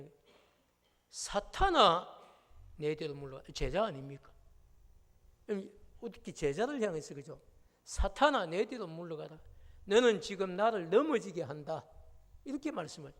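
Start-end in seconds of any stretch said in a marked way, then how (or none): 1.1-3.4 louder, sharp rebuke on the name; stern rebuke. Retold or imitated. Jesus rebuking Peter, a loud stern command. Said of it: "주님께서 책망을 도리어 하시는 것이죠". 7.8-11.9 louder, sharp rebuke on the name; stern rebuke. Retold or imitated. Jesus rebuking Peter, a loud stern command. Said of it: "주님께서 책망을 도리어 하시는 것이죠".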